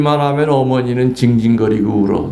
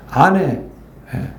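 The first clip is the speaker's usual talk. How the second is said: normal talking voice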